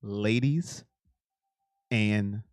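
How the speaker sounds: a wrestling-promo build down to a hush; Paul Heyman impression. Telling chat in a slow, low hush like a wrestling mouthpiece. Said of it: "That's my best Paul Heyman impression".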